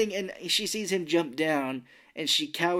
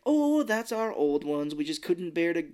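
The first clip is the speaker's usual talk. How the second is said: lightly voiced old lady; 2 semitones higher than usual. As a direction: lightly imitate a doting old actress. Voicing the old theater lady.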